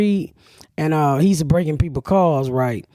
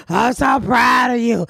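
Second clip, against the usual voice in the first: mock crying; 5 semitones higher, slower than usual. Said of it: "I said / he cried".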